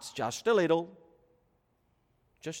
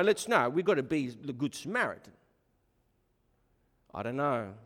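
ordinary delivery

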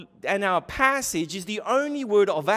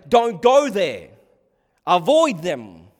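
slow, loud, weighty warning; firm warning; 7 dB louder, slower than usual. Acted. Preacher voicing what parents mean by beware, firm warning. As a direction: drive each phrase home loudly.

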